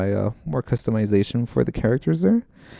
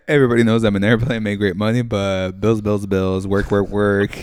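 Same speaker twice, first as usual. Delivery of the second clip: Andres impression; 3 dB louder than usual. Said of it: "what is he".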